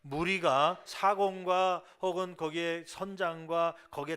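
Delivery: loud, measured read-aloud of scripture. Acted. Pastor leading the congregation in reading the verse together, loud scripture recitation. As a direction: lead the congregation firmly through the verses.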